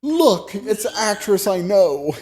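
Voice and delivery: high, loud excited squeal; excited recognition. Retold or imitated. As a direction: blurt it out thrilled. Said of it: "I did the".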